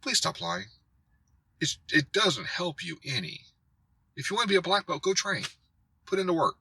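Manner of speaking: earnest, high-pitched admonishment; ranting plea. Real, not acted. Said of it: "that's my rant".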